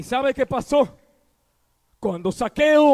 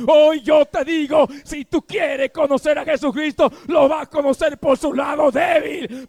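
fervent preaching. Acted. Preaching at full force.

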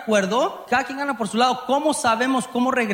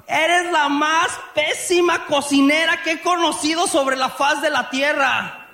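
mock insult; 5 semitones higher than usual. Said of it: "Ya estás criticando a la persona".

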